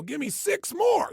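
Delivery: high, loud, slow drill-coach shout; trainer shout. Retold or imitated. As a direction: bark the demand like a gym trainer pushing you. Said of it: "They go".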